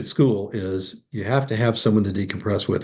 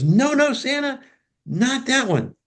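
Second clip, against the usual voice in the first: put-on little boy insisting; slower than usual. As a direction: cut Santa off like an eager child.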